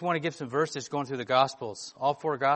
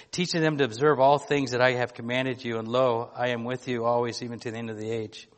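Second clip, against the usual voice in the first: louder, measured reading of the Bible passage; scripture reading; 4 dB louder than usual. Acted. Pastor reading scripture to his church, louder and solemn. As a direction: read the Gospel out to the congregation with weight. Preacher reads Matthew passage aloud.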